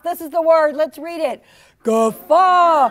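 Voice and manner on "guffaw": big guffaw. Shown as a demonstration. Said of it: "It's a really big laugh".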